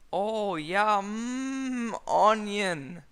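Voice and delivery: high, loud hammed-up moaning; overplayed pleasure sounds; silly loud moan; mock moan. A narrator's reading.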